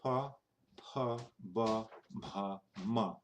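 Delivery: PA, BA, MA made with lips together; labial consonants. Shown as a demonstration. Teacher demonstrating the labial row, lips together. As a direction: press lips for PA, BA, MA. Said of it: "just putting your lips together".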